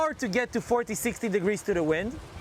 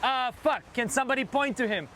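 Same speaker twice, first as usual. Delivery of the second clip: alarmed; 4 semitones higher than usual. Real, not acted. Man overboard drill starts suddenly.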